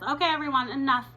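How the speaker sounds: teacher stopping a mocking class; firm teacher. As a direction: shut it down firmly. Teacher stops class laughing.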